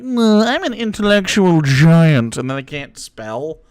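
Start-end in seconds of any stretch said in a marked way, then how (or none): 0.0-2.4 smug mock voice. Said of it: "they're like".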